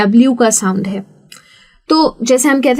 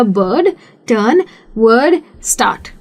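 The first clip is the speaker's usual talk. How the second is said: said fast. Shown as a demonstration. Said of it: "जब मैं fast बोलूँगी".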